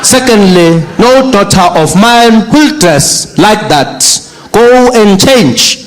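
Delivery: slow stern father laying down the law; stern dad. Retold or imitated. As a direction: drag out each order like an angry father. Father scolding daughter.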